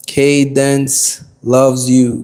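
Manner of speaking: slow, stretched shout-out with "loves" leaned on; drawn out. Real, not acted. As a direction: draw the greeting out lazily. Greeting a chat viewer.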